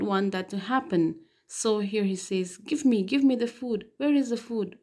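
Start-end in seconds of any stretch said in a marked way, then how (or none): 2.6-4.8 hoarse and angry. Acted. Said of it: "very hoarsely, very angrily".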